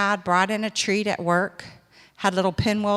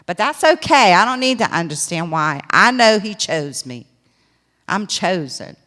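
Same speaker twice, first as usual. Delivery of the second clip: defiant declaration; 5 dB louder than usual. Retold or imitated.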